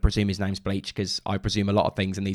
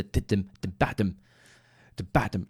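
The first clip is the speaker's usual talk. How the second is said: low-key "da-ba-dum" drum imitation, softer; vocalised syncopation; 3 semitones lower, 5 dB quieter than usual. Shown as a demonstration. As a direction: sound out the syncopated beat. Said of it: "it just had the great syncopation".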